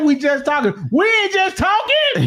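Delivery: high, shouted, laughing protest; hammed-up outrage; mock protest. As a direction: yell that you're not just talking. Acting out venting friend.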